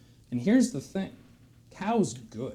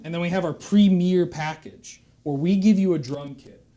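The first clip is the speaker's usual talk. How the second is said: louder, building pushy salesman hype; excited sales pitch; 6 dB louder than usual. Acted. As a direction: sell the premier package hard. Drum instructor's sales pitch.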